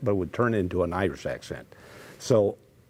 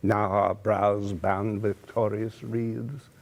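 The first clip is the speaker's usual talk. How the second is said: theatrical Richard III speech; Shakespeare recital. Shown as a demonstration. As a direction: recite it like a stage actor. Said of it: "And so I did Shakespeare".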